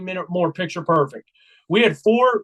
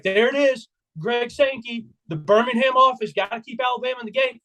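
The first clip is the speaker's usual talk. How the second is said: higher-pitched sarcastic fan complaint; mock grievance; 5 semitones higher than usual. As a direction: imitate a buddy griping at the officials. Friend's retold complaint about calls.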